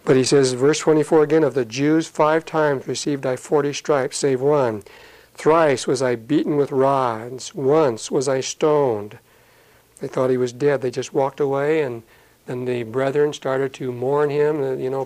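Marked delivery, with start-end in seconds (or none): 1.4-9.2 slow, solemn scripture reading. Acted. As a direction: read Paul's words with weight. Reads scripture in sermon.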